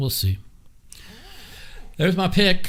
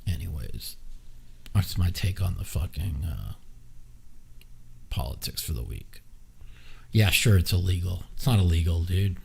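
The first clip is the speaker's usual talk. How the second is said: ordinary delivery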